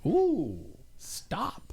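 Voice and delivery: high sing-song calls of shop signs; mother-in-law reading signs aloud, lightly mimicked high calls; mother-in-law calling out. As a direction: mimic her calling out each sign as it passes. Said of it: "She just calls out".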